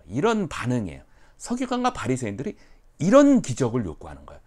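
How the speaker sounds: ordinary talk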